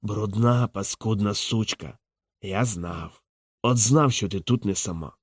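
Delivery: put-on slow, slurred drunk accusation; low, quiet drunk rage; drunken drawl. A narrator's reading. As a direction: drag the words, half drunk. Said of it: "підхмелено розтягуючи слова".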